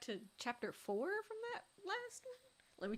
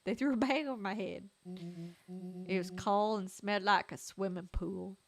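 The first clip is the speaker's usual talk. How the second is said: twangy character voice; 3 semitones lower, 4 dB louder than usual. Acted. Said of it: "It does need more twang".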